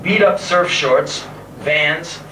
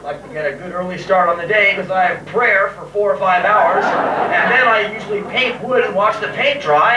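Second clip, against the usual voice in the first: raised, lightly put-on dull-guy voice; mock boring guy; 3 semitones higher than usual. Playing the dullest man on earth to a girl, put-on politeness. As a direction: act lamely polite to get rid of her. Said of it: "making myself look like the most boringest man on earth".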